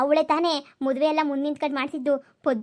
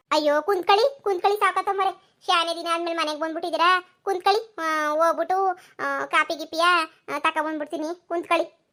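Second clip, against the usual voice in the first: neighbour woman; 3 semitones higher than usual. Acted. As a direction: greet the visitors with surprised delight. Paddu urges guests to sit.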